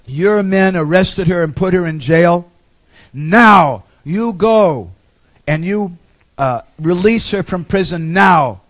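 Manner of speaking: loud, slow, drawn-out orders; stern command. Retold or imitated. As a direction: spell it out like a furious master. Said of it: "started yelling at him".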